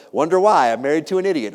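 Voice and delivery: mock exasperated grumbling, loud at first; exasperated wife. Wife grumbling about her idiot husband, mock exasperated. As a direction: imitate a fed-up wife complaining.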